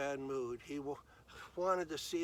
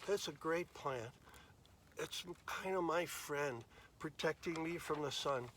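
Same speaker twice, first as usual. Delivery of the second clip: fond inner thought; 4 dB quieter than usual. Acted. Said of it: "he thought".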